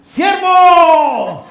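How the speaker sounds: loud, high shout up to a scaffold; calling out. Retold or imitated. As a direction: hail the brother from the gatehouse. Calling up to worker from gate.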